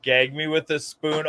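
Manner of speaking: lightly mocking valley girl echo. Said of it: "how old are you?".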